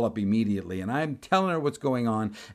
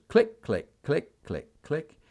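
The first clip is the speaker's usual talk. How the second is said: imitated keyboard clicks; 4 semitones higher, much slower than usual. Imitating clerk's typing.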